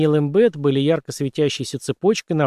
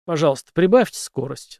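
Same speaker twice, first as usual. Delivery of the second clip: out of breath. Acted. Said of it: "задыхаясь".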